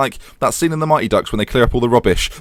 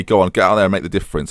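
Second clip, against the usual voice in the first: passionate; faster than usual. Pretend. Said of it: "I'm gonna passionately say".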